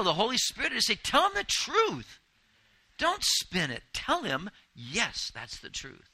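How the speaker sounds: high, loud urgent cry; preaching at full force. Acted. Preacher voicing the Holy Spirit's urging, high and loud. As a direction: proclaim it like a fiery preacher.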